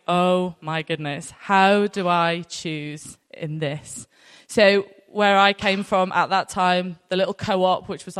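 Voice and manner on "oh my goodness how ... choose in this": mock overwhelmed. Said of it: "and I was like".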